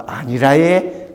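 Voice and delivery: slow, drawn-out Gyeongsang dialect. Shown as a demonstration. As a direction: say it in Gyeongsang dialect, stretching the ending. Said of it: "경상도 말로".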